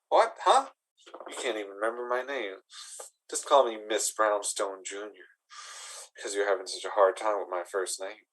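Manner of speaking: soft, lightly voiced goblin lady; Clarissa the goblin lady, put out. Goblin lady showing her forgetful suitor her place, softly put out.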